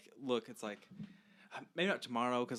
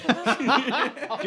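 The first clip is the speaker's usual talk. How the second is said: fireworks noise; 11 semitones higher, 7 dB louder, much slower than usual. Pretend. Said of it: "I love that firework impression".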